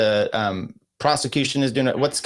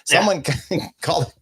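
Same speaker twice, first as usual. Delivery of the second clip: laughing mock alarm; 4 semitones higher than usual. Joking about co-host coughing.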